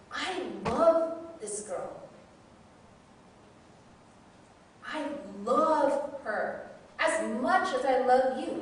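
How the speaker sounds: slow, gentle divine voice; God speaking slowly and gently to her. Retold or imitated. Voicing God's reply.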